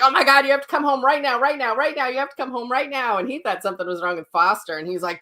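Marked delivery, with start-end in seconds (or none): 0.0-3.2 high, fast, frantic urging; urgent call to husband at work, high and rushed; panicked plea. Retold or imitated. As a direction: beg him to come home now, breathless. Panicked call to husband about bat.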